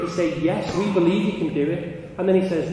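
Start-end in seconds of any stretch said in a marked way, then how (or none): 0.4-1.9 high, loud imitated crowd reply; acted eager shout; crowd shouting back. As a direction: cheer him on as the whole crowd. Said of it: "they're all shouting".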